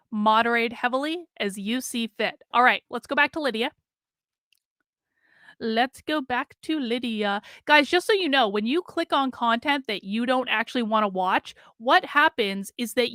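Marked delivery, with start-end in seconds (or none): 5.6-7.4 slow deliberate repeat. Real, not acted. Slow repeat after digression.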